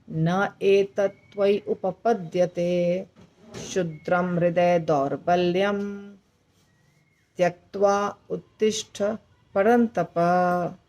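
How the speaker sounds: verse phrases recited slowly, परंतप drawn out; slow practice recitation. Shown as a demonstration. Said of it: "ऐसे हमको इसको practice करना है". (अभ्यास के लिए धीमा पाठ)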